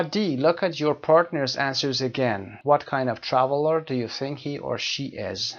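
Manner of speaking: slow, deliberate instruction read. Shown as a demonstration. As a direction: read each word slowly for the class. Teacher reads exercise instructions.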